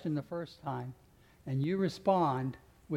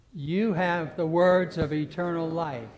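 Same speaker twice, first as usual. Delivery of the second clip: "You" leads, said louder and slow; loud slow declaration; 6 dB louder than usual. Acted. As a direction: declare it slowly with the congregation. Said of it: "The first time we're gonna emphasize".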